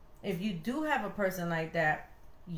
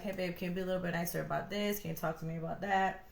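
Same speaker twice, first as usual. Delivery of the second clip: gentle request; 4 dB quieter, faster than usual. Retold or imitated. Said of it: "talk to me like".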